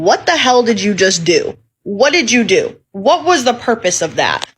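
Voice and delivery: baffled, punchy inner outburst; incredulous. Retold or imitated. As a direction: demand it in stunned disbelief. Acting out her stunned inner reaction.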